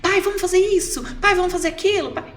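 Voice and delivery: put-on high eager kid begging dad; excited child. Happy son asking his father for activities, high excited voice. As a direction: bounce with joy asking dad to play. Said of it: "Ele ficou extasiado".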